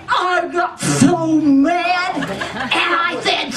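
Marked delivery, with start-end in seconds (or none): 0.1-2.2 mock mad. Telling of getting angry.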